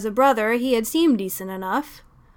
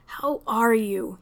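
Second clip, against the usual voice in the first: gently; slower than usual. Acted. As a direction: ask kindly, taking time. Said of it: "he asked again".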